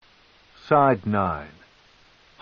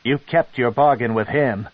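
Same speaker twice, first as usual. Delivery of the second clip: bitter sarcastic jab; spat sarcastically; 2 semitones higher, 3 dB louder than usual. Acted. Son mocking his mother's bargain, sarcastic. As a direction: spit the words with contempt. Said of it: "Drist spat sarcastically".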